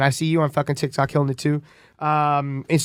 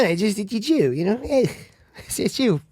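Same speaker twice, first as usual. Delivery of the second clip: put-on generic Jewish accent; 3 semitones higher than usual. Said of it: "Let me hear the Jew".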